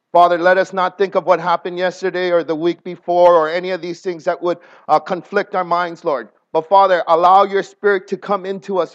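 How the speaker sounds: earnest prayer voice. Acted. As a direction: pray aloud to God. Leads congregation in prayer.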